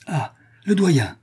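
high, drawn-out cry of relief; joyful exclamation. A narrator's reading. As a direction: exclaim it with joy, slowly falling. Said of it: "s'écrièrent les prisonniers avec joie".

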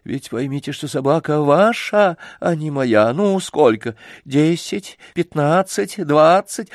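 a hint of a haughty, exasperated lady; impatient lady. A narrator's reading. Rich lady haggles impatiently with the old man, lightly haughty. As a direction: fuss and haggle from above.

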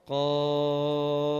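قاف chanted with a very long held vowel; long qaf. Shown as a demonstration. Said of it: "بس احنا كيف بنقرأها؟". (قاف بمد طويل جدا)

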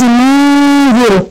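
slow منذر with a held nasal nun before the dh; ikhfa nasal. Shown as a demonstration. Teacher modelling the nasal hold for the student. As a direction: draw out منذر, nun hidden and humming. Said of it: "هي النون وراها الذال اخفاء".

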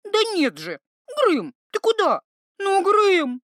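high, loud, rising pleading; desperate plea. Acted. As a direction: call after him in alarm. Iva pulling at the troll.

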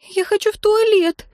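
very high little squeaky voice; squeak. A narrator's reading. Little priestess begging for the toilet, squeaking. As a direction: pipe up in a tiny high squeal. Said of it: "пискнул чей-то голос".

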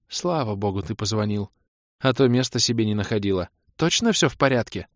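lightly voiced anxious mother; a worried mother recounting events. Mother tells son she senses trouble, lightly worried.

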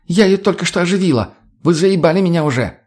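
high, irritated outburst; exasperated. A narrator's reading. Lena scolds them for undoing her revival, exasperated. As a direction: complain at them, fed up.

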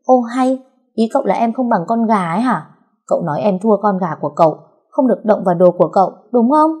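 high, indignant, accusing questions; wife indignantly accuses husband, rising high, speeding up; glaring indignation. Acted. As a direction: demand an answer with a sulky glare. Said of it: "Trúc lườm nguýt".

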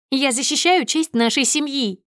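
high-pitched righteous protest; indignant cry. A narrator's reading. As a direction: defend the family honour heatedly. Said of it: "кричит она ещё громче". (возмущённо, высоким голосом)

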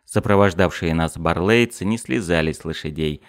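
plain reading voice

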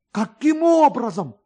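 eager, breathless with joy; excited question. A narrator's reading.

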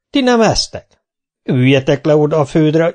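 high, loud booming question; hearty warrior calling to the kids. Acted. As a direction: boom it out to the children. Kinizsi booming at the children.

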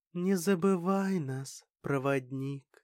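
sad, slow hushed farewell; longing whisper. Acted. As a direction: breathe it out with longing. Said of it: "с тоской прошептала".

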